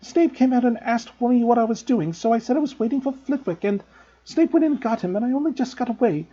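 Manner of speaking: high, distressed wail; girl wailing apology to friends. A narrator's reading. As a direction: plead and wail in dismay. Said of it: "she wailed".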